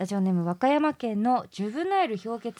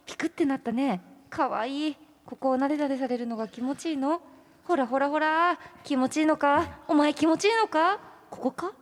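higher-pitched coo to a little pet; playful cooing; 4 semitones higher than usual. Acted. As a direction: tease it affectionately, pitched up. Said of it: "キモチ悪い虫と戯れるマナちゃん".

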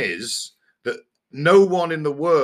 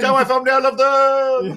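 high, strained dying man's voice; wounded soldier gasping; 12 semitones higher, 4 dB louder than usual. Retold or imitated. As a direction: gasp out last words, hammed-up. Joking dying man's last words.

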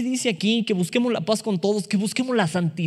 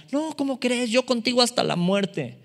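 Peter protesting; 7 semitones higher than usual. Acted. Peter's boastful denial acted.

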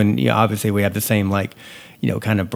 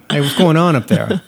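calling out; 5 semitones higher than usual. Retold or imitated. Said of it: "I'll call you".

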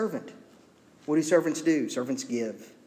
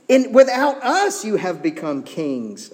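loud, slow mock proclamation; sarcastic; 5 semitones higher, 6 dB louder than usual. Paul to self-crowned Corinthians, sarcastic. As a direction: hail them with exaggerated grandeur. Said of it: "being wholly sarcastic".

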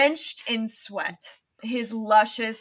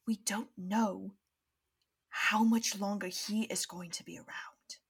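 urgent hush. Acted. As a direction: keep it down so he won't hear. Neville urging in hushed tones.

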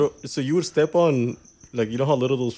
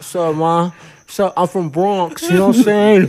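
mock Bronx accent; 3 semitones higher, slower than usual. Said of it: "she talks like this".

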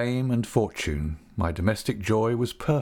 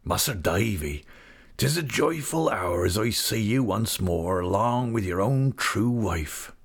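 rustic English dialect, glad and heartfelt; hearty old countryman. Acted. Old man greets Davy and his wife, joyful rustic voice.

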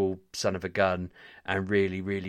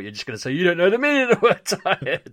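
higher, louder, laughing through an imitation of his co-host; laughing mock quote; 11 semitones higher, 8 dB louder than usual. Co-host mimics his friend's jab while laughing. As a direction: giggle while mimicking the teasing line. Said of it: "and then I thought".

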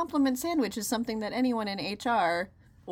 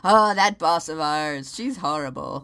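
mock gossiping; 3 semitones lower, 8 dB louder, slower than usual. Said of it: "and we go".

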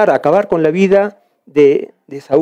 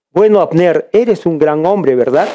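mocking. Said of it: "se burló David".

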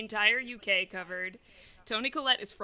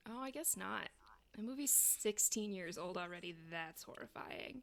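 whisper; 9 dB quieter than usual. Real, not acted. Realizing the movie is old.

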